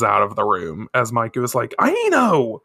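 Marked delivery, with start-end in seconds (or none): 1.8-2.6 high-pitched call, falling at the end; calling after her. Acted. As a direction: call out the name to someone leaving. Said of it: "He calls after her".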